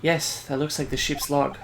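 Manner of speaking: put-on soft, slow, lightly Asian-accented reply; restrained Asian accent, unhurried; light Asian immigrant accent. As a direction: answer softly and slowly with a light Asian accent. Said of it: "like, an Asian immigrant".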